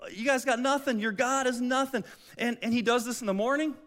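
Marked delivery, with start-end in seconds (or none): 0.1-2.0 a slightly raised, scornful jeer; mock taunting. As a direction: sneer it at the cowering soldiers. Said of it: "And he's taunting them".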